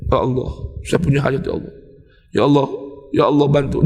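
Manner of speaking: lightly mimicking a hurried, distant plea; quick mock plea, low and a little far off; careless rushed prayer. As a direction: rattle off the prayer like a chore. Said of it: "Kalau kita kan kalau berdoa gimana".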